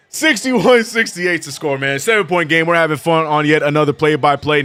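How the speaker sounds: projected broadcast scene-setting; play-by-play announcer. Acted. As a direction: set up the game like a TV commentator.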